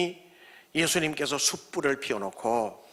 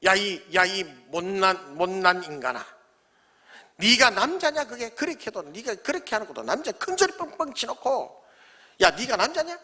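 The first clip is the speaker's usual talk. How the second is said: scolding rebuke. Retold or imitated. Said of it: "혼나면 좋겠어".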